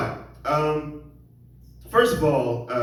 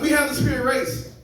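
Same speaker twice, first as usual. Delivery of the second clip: put-on high, failed German accent; a second weak go at a German accent; comic retrying Hitler's German accent and missing it; bad German accent; 10 semitones higher, 3 dB louder than usual. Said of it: "I realized I can't do a German accent".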